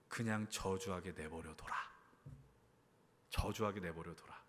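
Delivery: low, soft, defeated voice; subdued, heavy-hearted murmur; resigned and weary. Acted. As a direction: give up quietly, letting it happen. David's weary, resigned reply, acted.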